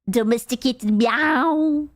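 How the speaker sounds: slow, drawn-out mock meow; domesticated meow. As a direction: stretch out a tame cat's meow. Playing the lion turned cat.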